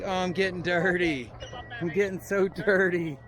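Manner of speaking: high put-on voice; squeaky fussy little voice; voicing her. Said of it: "She's like".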